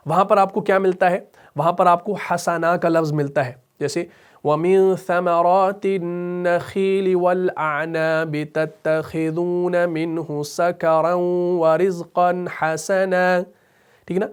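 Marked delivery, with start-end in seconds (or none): 4.4-13.4 slow, chanted tilawat; slow measured Quranic chant; Quran recitation. Shown as a demonstration. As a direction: recite melodically and slowly. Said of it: "recites verse as example".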